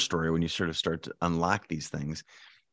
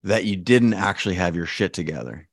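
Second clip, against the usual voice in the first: voice of self-doubt; 5 dB louder than usual. Retold or imitated. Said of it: "then they said".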